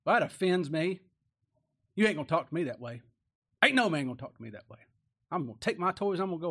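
loud, quick, hammed-up offense; mock indignant. Preacher mocks a man offended at being called a dog, fast indignant. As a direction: bristle like a proud man insulted.

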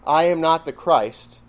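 slow, deliberate "I am not the Christ", stressing AM; emphatic denial. Retold or imitated. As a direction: deny it firmly, drawing out "am not the Christ". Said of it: "his emphatic denial".

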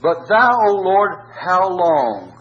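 high, slow pleading lament to God; anguished cry. Acted. Preacher voicing David's plea to the Lord, anguished.

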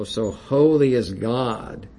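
measured, deliberate recitation building each "So holy is God"; solemn reading. Shown as a demonstration. Preacher reading phrases to the congregation, solemn recitation. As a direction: read it like a litany of awe. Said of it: "I'm gonna read these little phrases here".

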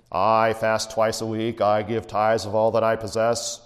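snooty Pharisee. Retold or imitated. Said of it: "Kind of snooty".

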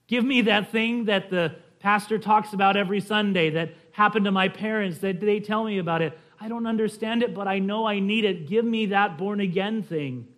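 pleading plainly, pitched a little up; lightly acted simple prayer; child's simple prayer. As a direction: pray it like an eager child. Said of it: "Boys and girls, you can pray that simply".

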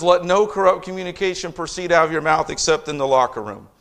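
breezy, tongue-in-cheek misreading of the verse; mock misquote. Shown as a demonstration. Pastor mocking the boys' excuse to the congregation, wry misquote. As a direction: slip the "locker room" ending in like it belongs. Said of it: "That's not what it says".

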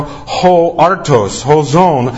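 ho artos, ho zon said slowly, each Greek word set apart; Greek read out slowly. Shown as a demonstration. Preacher reading the Greek to the congregation, slow and careful. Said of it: "he uses the definite article".

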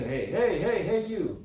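a mock sloppy hey hey you, rising at the end; mocking rude greeting. Preacher mocking careless callers: rising mock hey. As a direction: imitate people who call out carelessly. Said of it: "too many people say".

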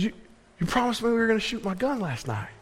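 put-on high-pitched, hurried complaint of a young son; imitated reproachful son. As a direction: imitate a kid holding Dad to a promise. Son reminding father of broken promise.

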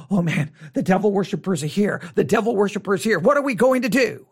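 mock panic. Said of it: "many people are like".

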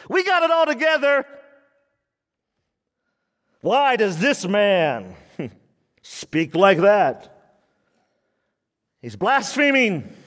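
mock snooty scribes, lightly played; a touch of stuck-up disdain; hoity-toity scribes. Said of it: "Just hoity-toity".

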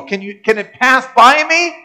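lightly voiced Jesus begging for the cup to pass; pleading prayer.

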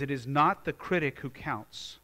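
reading Roosevelt with fire. Retold or imitated. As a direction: declaim it like a great orator. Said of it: "He says".

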